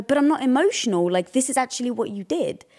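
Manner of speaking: mildly indignant, insisting on the point; pushing back. Retold or imitated. Wife replaying her urge to argue with husband, pushing back. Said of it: "wanted to push back and go".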